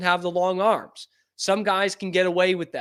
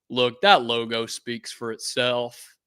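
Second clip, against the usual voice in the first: put-on slow, lower Louisiana accent; imitated Louisiana accent; 5 semitones lower, slower than usual. Quoting the draftee on the team logo, imitated Louisiana accent. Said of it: "in that beautiful accent of his".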